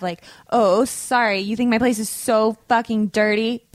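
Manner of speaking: sarcastic, indignant apology; intense mock rant. Host accused of a shabby place, hammed-up sarcastic rant. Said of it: "That was intense".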